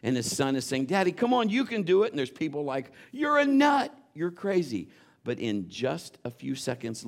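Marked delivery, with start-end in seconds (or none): 0.9-2.1 high, loud cheering on; cheering boy. Retold or imitated. Son cheers his father pushing the boat, high and loud. 3.1-4.9 high, loud mocking jeer; jeering crowd. Onlookers mock the pushing father, high and loud.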